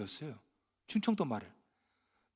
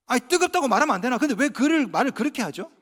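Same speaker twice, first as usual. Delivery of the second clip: usual speaking voice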